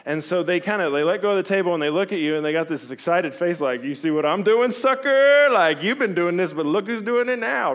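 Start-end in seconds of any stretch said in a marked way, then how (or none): 3.8-7.7 louder, gloating taunt, sucker shot high; cocky toddler. Pretend. Toddler to parent, gloating excited taunt. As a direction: crow like a proud baby.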